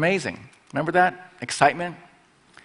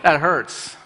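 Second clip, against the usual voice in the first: mock alarm; much slower than usual. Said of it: "make it big, and like".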